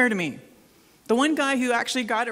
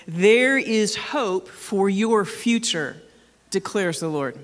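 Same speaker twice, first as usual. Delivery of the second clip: deliberate, emphatic second reading; scripture read again; much slower than usual. Acted. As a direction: read it again slowly, with more weight. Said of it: "Let me read it for you again".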